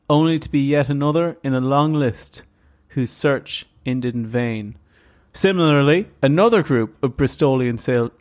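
measured documentary-style narration; story narration. Acted. Podcast host reads the island legend to co-host, measured narration. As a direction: read it like a mystery documentary, with weighted pauses. Resumes reading scripted story.

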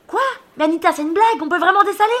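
high, loud incredulous yell; shouted disbelief. Acted. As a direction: yell up that this must be a joke. Yelling in disbelief to friend.

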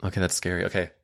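ordinary delivery

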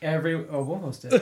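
tipsy giggle; laughing a bit tipsy. Real, not acted. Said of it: "we're a little tipsy".

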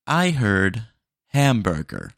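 loud, flat machine confirmation; robot voice. Acted. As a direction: mishear like a dumb bot. AI bot mishears order.

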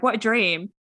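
"What a dream" with the T left out; lazy East London "What a dream", swallowing the T; T's dropped. Shown as a demonstration. Showing how a partner's East London accent rubs off, T's dropped. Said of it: "not having to pronounce my T's".

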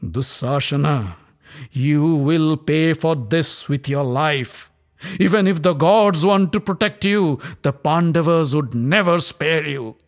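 slow, clipped-off words, each one spaced; staccato voice. Acted. Draupadi vows revenge to Dussasana, staccato. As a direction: bite off every word as a vow. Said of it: "With a staccato voice".

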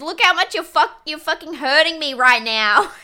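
hammed-up wounded whine; imitating Jamie. Jamie pleading with Tim, mock sobbing plea. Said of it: "He says".

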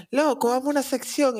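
high, bright quoting voice; a client asking casually, voiced high; mock client voice. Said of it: "me llegan a decir así de que".

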